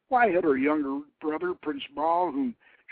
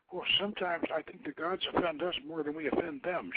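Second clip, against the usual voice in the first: not too loudly; 5 semitones higher, 7 dB quieter, faster than usual. Acted. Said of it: "but not too loudly".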